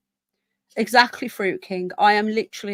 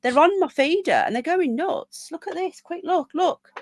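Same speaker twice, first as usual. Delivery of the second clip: excited; 8 semitones higher than usual. Real, not acted. Excited about starlings in garden.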